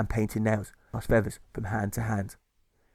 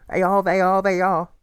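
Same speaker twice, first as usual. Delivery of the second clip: high, loud gushing; gushing mother; 9 semitones higher, 7 dB louder than usual. Acted. Mother pressing rock cakes on Alfred, high gushing. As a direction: coo it like a doting mother.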